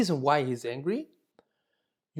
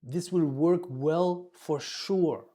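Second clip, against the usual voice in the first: slow, calm and sure of it; reassuring certainty; slower than usual. Shown as a demonstration. Teacher showing staff how to reassure a depressed patient, slow and certain. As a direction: promise it will work, slowly. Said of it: "They, they look for certainty".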